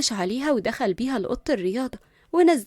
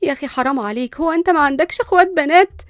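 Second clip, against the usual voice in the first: exhausted pleading, rising louder; worn out; 3 semitones higher, 6 dB louder than usual. Acted. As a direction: complain as if worn out mid push-up. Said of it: "جود قالت بتعب".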